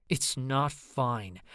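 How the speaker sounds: very slow, through gritted teeth; through clenched teeth. Acted. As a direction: force each word through gritted teeth. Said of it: "through clenched teeth".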